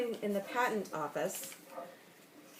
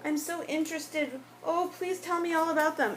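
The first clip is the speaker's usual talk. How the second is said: high, loud, gushing retold voice; mock-enthusiastic wife, higher than usual; eager wife; 7 semitones higher, 4 dB louder than usual. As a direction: imitate an over-interested wife, pitched up and pleading. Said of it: "'Cause she was like".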